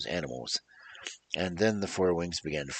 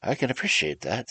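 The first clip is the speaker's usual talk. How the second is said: sympathetic; 4 semitones higher than usual. Acted. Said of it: "said the Tin Woodsman sympathetically".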